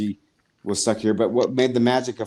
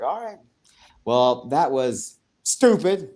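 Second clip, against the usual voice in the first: mock deadpan; 3 semitones higher, much slower than usual. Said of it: "And I was like".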